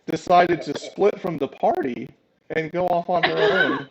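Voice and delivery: loud, high, talking through laughter; real laughter spilling into the words; laughing. Real, not acted. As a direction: try to get the sentence out while laughing. Game master still laughing while narrating.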